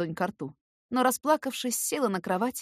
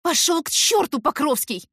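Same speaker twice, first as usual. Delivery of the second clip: furious, loud and higher; louder, higher angry snarl; growled; 9 semitones higher, 7 dB louder than usual. A narrator's reading. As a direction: snarl it at him. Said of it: "Кажется, я прорычала".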